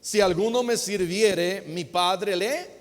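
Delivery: slow, measured Bible reading; scripture reading. Acted. Preacher reads Jesus' words to the congregation, slow solemn reading. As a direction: read the verse slowly, phrase by phrase.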